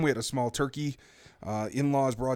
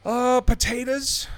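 drawn-out, higher American "potatoes"; stretched American vowels; very American accent; 10 semitones higher, 3 dB louder, much slower than usual. Real, not acted. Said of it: "You, you sounded so American".

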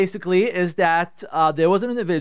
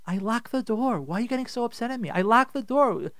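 higher-pitched, hurt insistence; protesting wife; 6 semitones higher than usual. Acted. Wife asking why husband is upset, protesting. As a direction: plead your case against the accusation.

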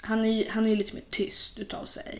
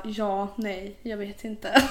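halting, mock-unsure reply; understated, dithering imitation; hesitant boyfriend; much slower than usual. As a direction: imitate an indecisive partner, weighing each word. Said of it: "så han brukar bara".

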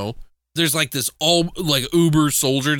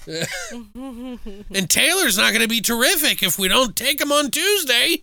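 slowed, higher, careful over every T; slow tongue twister; 9 semitones higher than usual. Retold or imitated. Retelling Barker's line to a friend, slow and high. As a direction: lay each T out slowly like a tongue twister.

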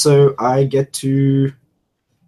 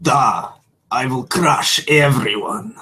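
put-on Russian accent; slower than usual. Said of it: "it's Russian for comrade".

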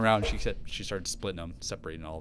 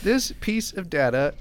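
ringmaster; 8 semitones higher, 5 dB louder, slower than usual. Acted. Announcer hype voice.

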